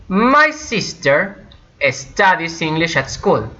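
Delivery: MY SISTER high and drawn out, then a pause; slow model sentence. Shown as a demonstration. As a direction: present the example slowly to learners. Teacher models the example sentence.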